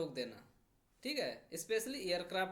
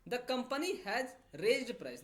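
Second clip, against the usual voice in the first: slow, word by word; slow dictation read; 3 semitones higher, much slower than usual. Shown as a demonstration. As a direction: read slowly for the class. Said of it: "company ने कीमतें उठा दी हैं".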